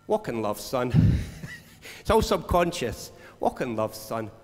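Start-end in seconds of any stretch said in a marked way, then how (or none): 0.1-0.9 gentle inner voice. Pretend. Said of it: "the Spirit of God comes and reminds us". 3.4-4.3 low, soft and fatherly; lower, softer voice of the Spirit; gentle inner voice. Pretend. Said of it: "this voice is saying".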